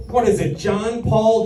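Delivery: normal talking voice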